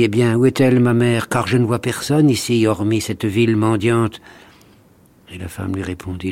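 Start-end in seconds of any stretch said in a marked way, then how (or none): 0.0-4.2 scornful. Acted. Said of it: "il eut un rire méprisant".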